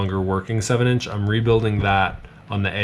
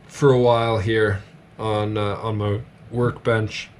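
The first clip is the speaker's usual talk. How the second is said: talking through hiccups; hiccuping between words. Real, not acted. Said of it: "got the hiccups".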